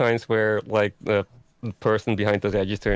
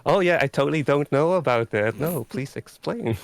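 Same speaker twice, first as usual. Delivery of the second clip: lightly played know-nothing tourist, pitched up; mock-innocent tourist; clueless tourist act; 5 semitones higher than usual. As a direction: feign ignorance, a little higher. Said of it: "like the tourist who just doesn't know anything".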